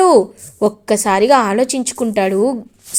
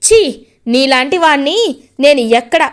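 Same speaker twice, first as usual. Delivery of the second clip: angry scolding; 4 semitones higher than usual. Acted. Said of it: "ఇంకా గట్టిగా చెప్తాడు".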